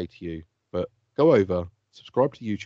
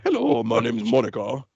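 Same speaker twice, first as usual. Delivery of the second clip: put-on wife voice, far lower than falsetto; lower-pitched wife; 3 semitones higher than usual. Shown as a demonstration. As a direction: do the wife more butch, down near your own pitch. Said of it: "lower pitch in her voice".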